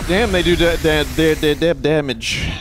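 lightly voiced stammering cartoon pig; Porky Pig stutter. Streamer doing his new cartoon pig impression, mild stutter. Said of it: "Porky Pig is my newest impression".

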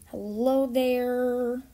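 drawn-out, teasing hello; slow taunting greeting. Pretend. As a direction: stretch it out as a taunt.

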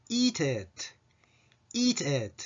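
"eat it" with tense ee, then lax short i; tongue up then down. Shown as a demonstration. Teacher modelling the phrase, "eat it" with contrasting vowels. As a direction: raise the tongue on "eat", drop it on "it". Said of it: "最初舌を上げて".

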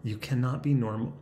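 composed, level restart; measured self-calming retake; deliberately calm. Shown as a demonstration. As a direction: say it evenly, reining yourself in. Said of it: "let's just be calm".

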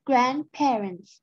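"grandparents" and "parents" ending on a clear hissed s; final s sounded. Shown as a demonstration. Teacher corrects the missing s: stressed final s. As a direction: stretch the last s of "grandparents" and "parents". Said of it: "grandparents มีตัว S เนาะ".

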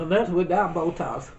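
words through laughter, slow; laughing. Real, not acted. Laughing while speaking.

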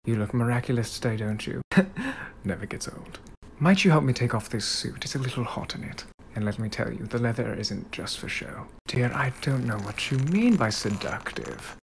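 soft, teasing British gentleman flirtation; Cat Noir.

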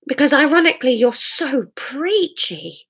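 fed-up, emphatic retort, starting high; exasperated quarrel. Acted. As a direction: stand your ground, hitting key words hard. Acted quarrel with Hamish.

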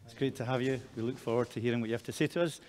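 normal talking voice

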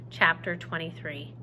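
reading a novel aloud to the class; story narration. A narrator's reading. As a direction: tell the story to the students, lively. Teacher reads novel aloud.

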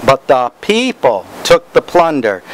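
"the people" picked out with emphasis; stress on PEOPLE. Shown as a demonstration. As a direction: lean on PEOPLE to make it stick. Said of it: "I put emphasis on different words".

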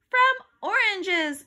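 high, slow, loud call; girl's shouted answer. A narrator's reading. Girl beating her rival in a quiz, shouting. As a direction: stretch out the answer as you shout. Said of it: "shouted Andrea".

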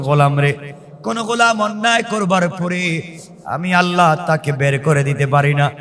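ordinary talk, nothing marked

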